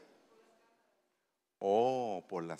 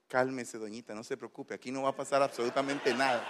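reassuring; 3 semitones lower, 7 dB quieter than usual. Retold or imitated. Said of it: "posición de autoridad para poder calmar".

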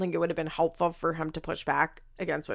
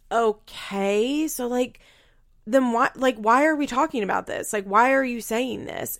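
higher-pitched mock bafflement; retold, pitched-up incredulity; baffled objection; 4 semitones higher than usual. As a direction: question it, imitating someone exasperated. Acts out Kale's baffled objection.

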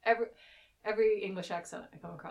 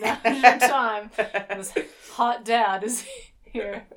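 hyped self-talk; 4 semitones higher, 16 dB louder, much slower than usual. Retold or imitated. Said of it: "so I was like".

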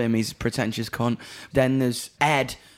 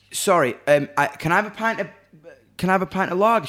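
mock polite request; 5 semitones higher, 5 dB louder, faster than usual. Ordering lager, higher voice.

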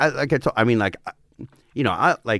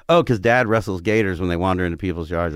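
imitating an offhand, everyday explanation; most normal thing; 4 semitones lower than usual. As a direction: say the absurd as if routine. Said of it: "acted like this was the most normal thing".

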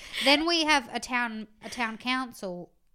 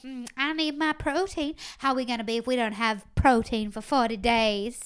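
put-on southern accent; 2 semitones higher, 8 dB louder than usual. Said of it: "You sound like Blanche Dubois".

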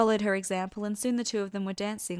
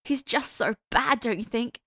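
put-on gushing girl; 3 semitones higher, 6 dB louder than usual. A narrator's reading. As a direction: swoon over the bad boy. Hester gushing about Dean.

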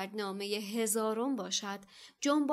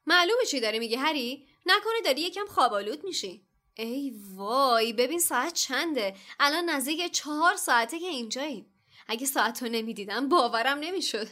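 cheerful Lockhart; 4 semitones higher, 6 dB louder than usual. A narrator's reading. Lockhart chatting, surprised.

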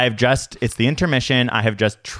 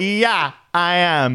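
higher-pitched retold retort; retold exasperated answer; 6 semitones higher, much slower than usual. Tourist answering the yelling stranger, retold exasperation. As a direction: answer back with mock exasperation. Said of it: "And I was like".

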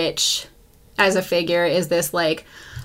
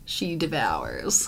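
whisper; 6 semitones lower, 10 dB quieter, much slower than usual. Acted. Ominous line about witch mother.

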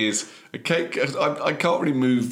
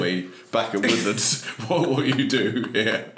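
put-on light Cockney accent; mild working-class Cockney accent. Delivery man introducing his firm, light Cockney accent. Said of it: "In a Cockney accent".

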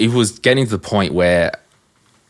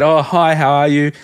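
higher, louder, overly bright hello; cheery phone greeting; 8 semitones higher, 4 dB louder than usual. Retold or imitated. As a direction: greet the caller with fake cheer. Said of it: "and he said".

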